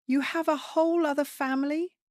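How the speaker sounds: high shrill scream. Acted. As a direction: scream it in disbelief. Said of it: "Sienna's voice rose into a scream".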